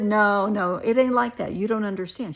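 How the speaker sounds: loud imitated pleading denial; desperate protest. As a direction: act out begging to be heard. Acted plea when thrown out.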